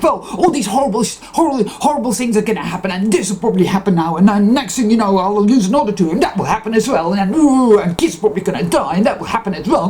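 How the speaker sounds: a hammed-up voice of doom piling on worst cases; passive-aggressive doom talk. Voicing the inner punisher to herself: fast passive-aggressive dread. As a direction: rattle off the disasters fast in a mock passive-aggressive whine. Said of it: "that really passive, aggressive".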